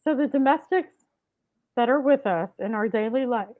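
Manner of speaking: talking through hiccups; hiccuping between words. Real, not acted. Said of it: "I don't know why I'm hiccuping".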